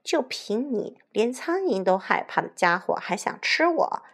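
light jeer at the wolf; mocking. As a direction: scoff at an empty threat. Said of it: "小红帽嘲笑道". (带点嘲笑的口气)

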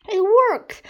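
high, loud excited cry; triumphant shout. A narrator's reading. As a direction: shout it out as a success. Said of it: "shouted Henry".

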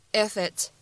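"if it's" run together as one word; "if it's" said with no break, like "i-fit's"; linked IF IT'S. Shown as a demonstration. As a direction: carry the f of "if" into "it's". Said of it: "咱们可以做一个连读".

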